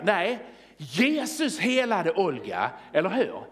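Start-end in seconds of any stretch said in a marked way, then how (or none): 0.8-2.7 slow, emphatic JESUS, set against other names; stress on JESUS. Acted. Preacher correcting other possible headlines, strong stress on Jesus. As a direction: lean hard on Jesus, then proclaim the rest slowly. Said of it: "Det kunde stått Reinhard Bonke".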